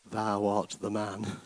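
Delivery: put-on old-version reading. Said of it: "Some of the old versions say".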